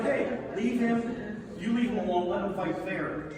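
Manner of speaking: mock shout at a huge dude; shouting Tommy. Tommy voiced yelling at big guy.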